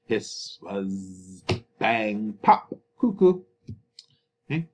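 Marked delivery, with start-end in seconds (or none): 0.0-3.4 sound words acted. Shown as a demonstration. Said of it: "like the action is describing".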